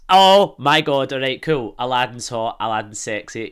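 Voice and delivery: loud, thrilled outburst; excited. Real, not acted. Delighted by the assistant's answer.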